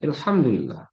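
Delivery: "Alhamdulillah" opening on "el", falling; Egyptian dialect pronunciation. Shown as a demonstration. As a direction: say "Alhamdulillah" with an e at the start. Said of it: "Dialeknya gitu".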